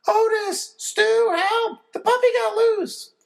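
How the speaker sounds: high, loud panicked shout. A narrator's reading. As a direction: call for help from the yard. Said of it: "I hear Mom shouting".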